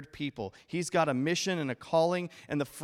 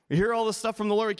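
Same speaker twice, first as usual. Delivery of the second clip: mock excited; 7 semitones higher, 6 dB louder, faster than usual. Preacher mocks shallow believers.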